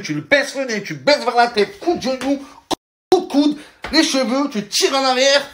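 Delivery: high, brisk coach voice; self-defense instructor. Retold or imitated. Self-defense teacher showing moves, high and brisk. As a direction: bark out the moves like a cocky instructor. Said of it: "le prof, il est là, il fait".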